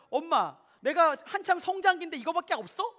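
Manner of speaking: mock whiny kid complaint; complaining child. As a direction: play a demanding child at the dinner table. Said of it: "라고 얘기합니다".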